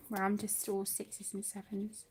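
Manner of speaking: whispered to herself, flustered. Real, not acted. Painter flustered on her live stream, whispering. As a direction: breathe it out under your breath.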